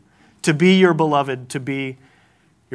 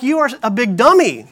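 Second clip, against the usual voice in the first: exasperated parent; 6 semitones higher than usual. Retold or imitated. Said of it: "you're just like".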